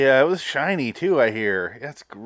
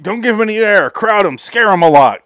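loud sarcastic crowd voice; louder, higher, jeering instructions; mocking crowd yell; 8 semitones higher, 9 dB louder than usual. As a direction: bark it like a mob mocking him. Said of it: "is like".

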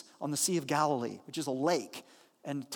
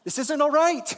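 mock panic; 2 semitones lower than usual. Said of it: "he's like".

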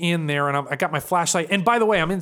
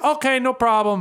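higher-pitched imitated Russian accent; 5 semitones higher than usual. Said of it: "this old Russian dude".

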